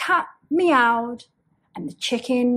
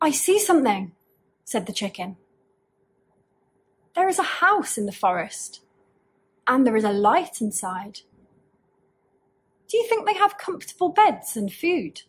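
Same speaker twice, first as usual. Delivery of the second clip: eager chicken; faster than usual. Acted. Chicken spots house, eager.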